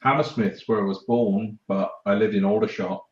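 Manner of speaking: Cockney showing through; Cockney accent. Real, not acted. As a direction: let the London Cockney slip out. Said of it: "It is coming out".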